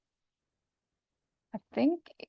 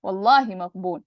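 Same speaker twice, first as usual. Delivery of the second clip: sworn emphasis; 4 dB louder, much faster than usual. Shown as a demonstration. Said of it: "because he's swearing".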